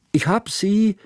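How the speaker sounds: put-on high, far child's voice calling from the kitchen; a young girl calls out from another room. A narrator's reading. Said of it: "rief Hanaka noch aus der Küche". (helle Kinderstimme, rufend)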